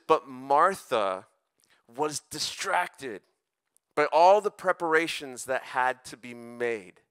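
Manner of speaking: slow, measured Bible reading; scripture reading. Acted. Youth pastor reading the Martha story to the group, slow scripture reading. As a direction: read the verse out slowly, word by word. Reads the Bible verse aloud.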